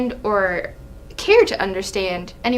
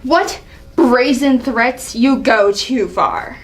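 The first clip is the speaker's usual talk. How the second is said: scornful, indignant royal rebuke; a proud ruler scolding a young upstart; angry king; slower than usual. Acted. King berating his son, angry. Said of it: "Seeing the angry side of Allie".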